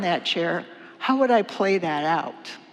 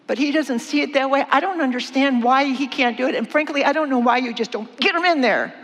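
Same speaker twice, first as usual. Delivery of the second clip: frustrated complaint; 3 semitones higher, 3 dB louder than usual. Acted. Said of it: "kinda getting frustrated".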